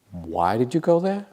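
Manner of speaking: imitating a baffled listener, pitch climbing to the end; mock puzzlement, rising steeply; baffled question. Everybody asking the retreatant why, baffled.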